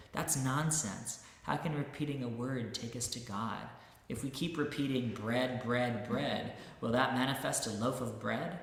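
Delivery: a hammed-up heckler's outburst, loud and indignant; skeptic's mock shout. Skeptic heckling the saint in the audience, mock shouting. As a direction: play the scoffing skeptic shouting from the crowd. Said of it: "stood up and shouted".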